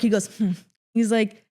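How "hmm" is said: short smug little huff; smug smirking "hmm". Retold or imitated. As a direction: imitate his smirk as a brief hum. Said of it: "he does this smirk".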